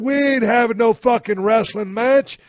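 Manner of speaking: high-pitched exasperated protest; indignant comeback. Acted. Man refusing the horsefly a wrestling match, indignant and high.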